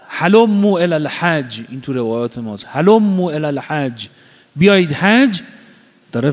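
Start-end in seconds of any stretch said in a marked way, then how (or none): 0.1-1.6 raised, mildly projected proclamation; retold call. Preacher voicing Abraham summoning people to Hajj, raised retold call. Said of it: "وجود نازنین ابراهیم داد زد". 2.7-5.4 mildly projected summons, rising higher; retold call. Preacher voicing Abraham's summons to Hajj, raised retold call. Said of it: "وجود نازنین ابراهیم داد زد".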